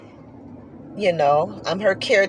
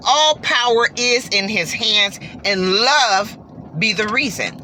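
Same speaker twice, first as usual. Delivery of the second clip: rising into a joyful scripture recital; fervent praise, lightly preached. Real, not acted. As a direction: proclaim it like a blessing.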